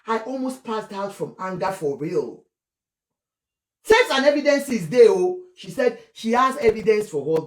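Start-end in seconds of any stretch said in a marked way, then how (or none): 0.1-2.4 quietly emotional. Retold or imitated. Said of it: "She became emotional when she said it".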